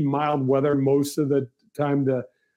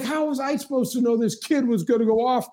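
much higher whiny caddy excuse; caddy's excuse; 9 semitones higher than usual. Retold or imitated. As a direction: play the caddy defending himself, pitch way up. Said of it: "He's like".

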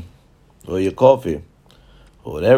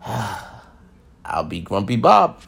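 sighing grump; much slower than usual. Acted. Sighing about morning tea.

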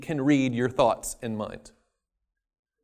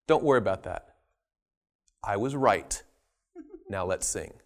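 low dismissive answer; 8 semitones lower, 6 dB quieter than usual. Acted. God dismissing question.

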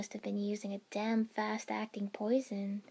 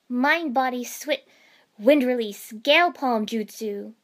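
calling out jutsu; 10 dB louder than usual. Acted. Ino and Temari calling out jutsu.

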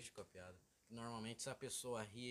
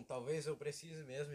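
slow, grave mock delivery, a touch louder; imitating serious friend; 4 semitones higher, 5 dB louder than usual. Quoting his friend's serious line slowly, gravely. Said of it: "e ficou sério".

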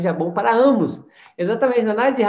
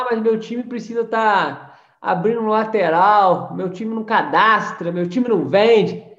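slow, louder whine of a complaining member; mock complaining excuse; 2 semitones higher, 4 dB louder, slower than usual. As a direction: mimic the excuse-maker. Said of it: "O cara fala". (imitando o cara que reclama do time)

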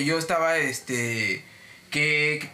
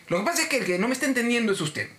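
higher, emphatic correction; fed up; 5 semitones higher than usual. Retold or imitated. Agente harto que responde al cliente, tajante. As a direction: spell it out firmly, out of patience. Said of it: "ya me salió la voz de sí".

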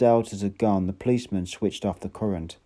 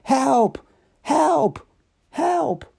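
each cry higher, shout climbing; shouting ever louder; 4 dB louder, much slower than usual. A narrator's reading. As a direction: build the cry, pushing higher each time. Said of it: "more and more loudly".

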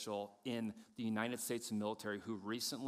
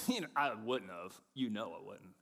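Adam excusing himself; 5 semitones lower than usual. Acted. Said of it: "Adam's like".

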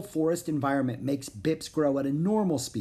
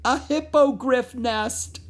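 excited; 10 semitones higher, 6 dB louder, slower than usual. Acted. So I wouldn't squeal.

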